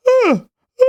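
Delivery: light, high yawn-like "ah"; sung yawn, like you're really tired; high, light tired sigh on a tone; yawning vocal slide. Shown as a demonstration. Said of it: "perspective of a yawn".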